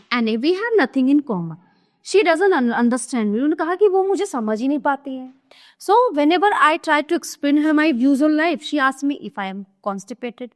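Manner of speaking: slow, deliberate reading of a stage script; slow classroom reading of a play; play read aloud. Acted. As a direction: read each line out slowly for the class. Reads Anne's complaint.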